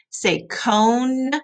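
put-on slow, drawn-out model words for kids; choral repeat. Shown as a demonstration. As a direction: say each word clearly so kids echo it. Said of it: "you gotta say it with me".

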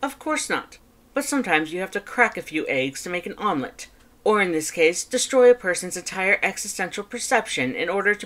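high, emphatic theatrical voice; grandiose brother. A narrator's reading.

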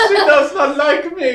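giggling through the words; laughing. Pretend. Voicing Bobby bar, laughing.

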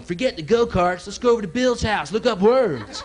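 put-on high sarcastic kid voices; mock excited kids. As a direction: ham up the nerdy excitement. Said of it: "hear the other kids going".

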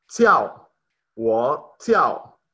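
Jiao said with a sharp falling tone; Mandarin syllables. Shown as a demonstration. Teacher drilling Wo Jiao for the class, sharp falling tone. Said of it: "en mi caso sería Wo Jiao".

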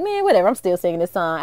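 low, quick dismissive grumble; retold mild upset. Daughter walking away from mom, mildly upset low grumble. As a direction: brush it off fast and low. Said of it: "kinda me getting upset".

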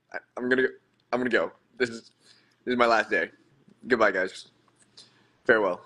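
low, mock-tragic farewell. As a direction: sigh out a hammed-up goodbye to the world. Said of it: "mock farewell after embarrassment".

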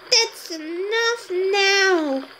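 slow, firm parental warning; firm stop. Real, not acted. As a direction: lay down the limit slowly and calmly. Adult stops child touching things.

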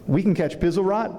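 put-on shocked boy, voice jumping up; alarmed surprise. Boy hears men can catch it, alarmed surprise.

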